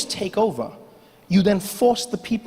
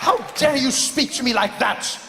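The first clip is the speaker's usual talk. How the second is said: pompous fussy courtier; 7 semitones higher than usual. Acted. British soldier indignant.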